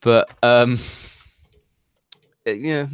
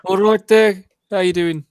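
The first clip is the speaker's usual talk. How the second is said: broad Black Country greeting, higher and louder; hammed-up Black Country accent, pitched up; 8 semitones higher, 5 dB louder than usual. Greeting the podcast hosts in a put-on Black Country accent. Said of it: "in character accent?".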